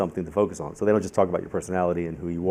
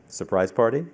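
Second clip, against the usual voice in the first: louder, confident guess ending upward; 3 semitones higher, 5 dB louder than usual. Retold or imitated. Reader guessing the date's event to the woman, confident. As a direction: offer it as a sure answer, rising at the end. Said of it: "I very confidently said".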